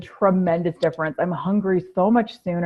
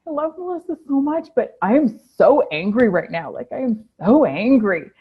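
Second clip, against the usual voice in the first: mock angry rant; 4 semitones higher than usual. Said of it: "I was so mad".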